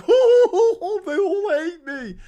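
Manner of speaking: high, slow laughing whine; hammed-up gleeful self-pity; mock Rees-Mogg. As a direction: camp it up as a pleased victim. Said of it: "He's like".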